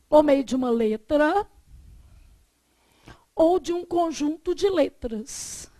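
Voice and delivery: measured dictation with long pauses. Real, not acted. Teacher dictating a definition for students to write, measured dictation. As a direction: dictate phrase by phrase, waiting between chunks.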